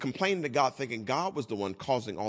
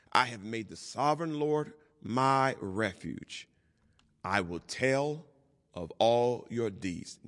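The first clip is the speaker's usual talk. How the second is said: deliberate verse reading, slowing toward the end; solemn scripture reading. Real, not acted. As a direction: proclaim the verse, spacing out each phrase. Reads the closing psalm verses aloud.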